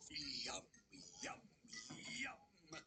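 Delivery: lightly growled yum yum yum; low growling big bad wolf. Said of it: "growled the wolf".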